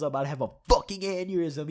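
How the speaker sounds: quick, contained imitation of yelling; mild mock yell. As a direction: mimic the roommate's outburst without full volume. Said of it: "After he yells".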